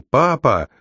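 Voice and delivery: restrained narrated shout, high then falling; drawn-out, understated call for his father; crying out. A narrator's reading. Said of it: "крикнул он".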